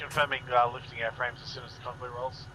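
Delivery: tinny voice over a radio; distant radio transmission; crackly military radio. Real, not acted. Radio reply over comms.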